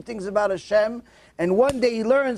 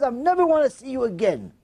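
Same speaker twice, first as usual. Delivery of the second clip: raised, incredulous quote; indignant retelling; 5 semitones higher than usual. Retold or imitated. Storyteller appalled at the rotten kid's words, high indignation. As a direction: throw the line back in outrage, pitched up. Narrator repeats it in outrage.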